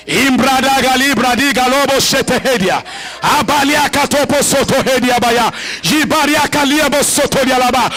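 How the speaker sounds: rapid fervent prayer in tongues; speaking in tongues. Acted. Congregation prays in tongues, pastor fervent and rhythmic. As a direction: let the tongues flow steadily.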